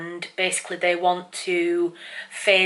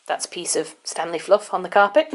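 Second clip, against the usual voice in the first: silly cat voice; 12 semitones higher, 4 dB louder than usual. Real, not acted. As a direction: coo at the cat in a sing-song voice. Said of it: "I'm gonna stop talking in silly cat voice now".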